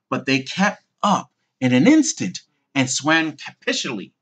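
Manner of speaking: usual speaking voice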